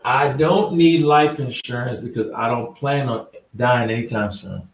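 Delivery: slowed down, letting every word land; slow mocking repeat of the excuse; slow, deliberate repeat. Shown as a demonstration. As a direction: read it back slowly so it sinks in. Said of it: "I'm gonna let you think about that".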